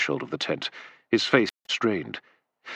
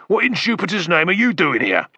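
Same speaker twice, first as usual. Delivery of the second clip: high, raised amazement; astonished; 8 semitones higher than usual. A narrator's reading. Macro stunned to see Septimus, astonished. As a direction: blurt it out in disbelief.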